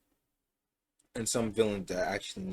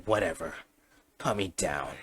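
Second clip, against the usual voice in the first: a touch lower, trying to sound unbothered; feigned calm; 3 semitones lower than usual. Acted. Shigaraki pinned to the wall, feigned calm. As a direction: play it cool while shaken. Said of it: "he tries to act calm".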